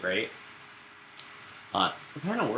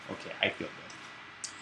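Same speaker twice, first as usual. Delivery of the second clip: breathy whisper, slower, content; whispered aside; 6 dB quieter than usual. Retold or imitated. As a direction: whisper it to yourself once settled. Student voiced, whispered.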